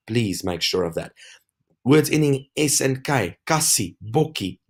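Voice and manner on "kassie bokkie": "kassie, bokkie" with short first vowels. Shown as a demonstration. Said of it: "short vowel".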